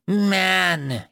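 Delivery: high, drawn-out hostile cry; hissed accusation. A narrator's reading. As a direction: spit the word at your captor. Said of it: "it hissed".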